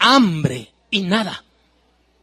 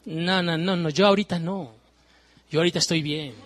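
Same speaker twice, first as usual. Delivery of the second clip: mock careless youth; 3 semitones lower, 5 dB quieter than usual. Voicing the unconcerned young person.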